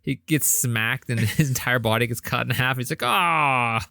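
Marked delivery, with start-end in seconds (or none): 3.0-3.8 drawn-out, mildly raised "ahh"; mock agonized groan. Podcaster acting out the man cut in half, mock agonized groan. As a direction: imitate a dying man's long "aah".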